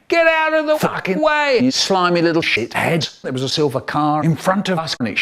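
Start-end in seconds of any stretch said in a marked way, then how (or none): 0.1-3.2 high, hammed-up yelling out the window; mock road rage. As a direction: yell at other drivers in mock fury. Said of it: "And he's going".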